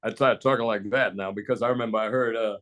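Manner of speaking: lightly imitated American news anchor; American newsman accent. Shown as a demonstration. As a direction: talk like an American movie star or TV newsman. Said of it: "the guy who did the news".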